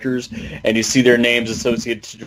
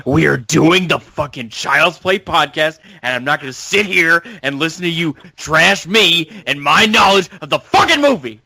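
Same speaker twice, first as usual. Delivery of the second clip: mock angry rant; 3 semitones higher than usual. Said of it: "Here I go".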